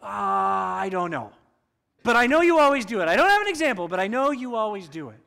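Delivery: mock sputtering husband.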